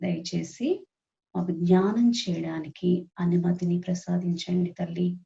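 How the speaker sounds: slow, measured prayer with pauses between phrases; guided prayer. Acted. Meditation leader asking the Mother's permission to meditate, prayerful. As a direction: lead the group in unhurried supplication.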